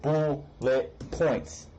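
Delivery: "bullet points" broken into separate beats; emphatic syllable breaks. Real, not acted. Repeating the advice emphatically.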